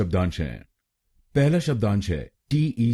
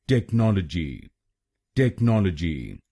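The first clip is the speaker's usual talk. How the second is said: टेक्नोलॉजी with the second syllable नॉल stressed; stress on NOL. Shown as a demonstration. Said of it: "दूसरे शब्दांश पर यानी एनओएल पर जोर डालना है".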